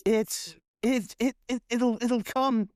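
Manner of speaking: high, stammering whispered dread; terrified whisper. Acted. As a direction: whisper it in terror, stumbling. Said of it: "she starts crying, just weeping".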